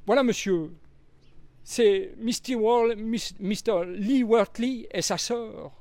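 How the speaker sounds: high, timid little maid's voice; young maid. A narrator's reading. Annie the young maid explaining herself to Poirot, high and timid. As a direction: speak up shyly but earnestly.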